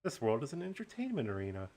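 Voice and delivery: gloating villain monologue; slow theatrical villain menace. Acted. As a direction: lay out the grand plan, gloating. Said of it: "do a nice villain monologue".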